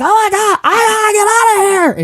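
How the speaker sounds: high-pitched panicked mock cry; mock freaked out. Wrestler fleeing a haunted house, hammed-up panic. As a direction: imitate a terrified wrestler fleeing. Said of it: "like, freaked out".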